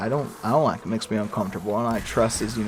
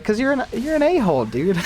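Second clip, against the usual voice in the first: high, loud jokey put-down; squeaky mock insult; mock blunt retort; 12 semitones higher, 5 dB louder than usual. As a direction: snap back at him in a playful jab.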